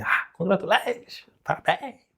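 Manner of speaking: bright rising "ah, congratulations" lifted at the end; effusive congratulations. Shown as a demonstration. Teacher mimicking an effusive speaker, rising excited greeting. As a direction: sell "congratulations" with an eager rising lilt. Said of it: "Ah, tem".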